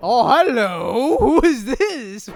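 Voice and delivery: loud, drawn-out, laughing greeting; gleeful surprise. Real, not acted. Player meeting a new character, loud laughing delight. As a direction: burst out delighted, stretching each word.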